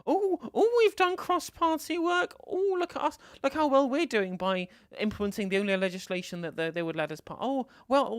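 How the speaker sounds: high, loud, smug sing-song voice; mocking impression. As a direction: parody a self-satisfied politician.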